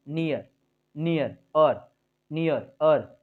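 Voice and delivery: "नियर" with the ई gliding into अ; pronunciation demo. Shown as a demonstration. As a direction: model नियर word by word, falling. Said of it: "अ भी आएगा उच्चारण".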